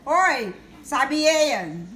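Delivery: slow, soothing reassurance; drawn out to calm a child; soothing mother. Shown as a demonstration. Mother soothing her upset daughter, slow and gentle. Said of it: "I'm saying like that".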